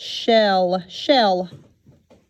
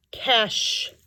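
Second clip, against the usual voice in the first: whisper; 2 semitones higher than usual. Shown as a demonstration.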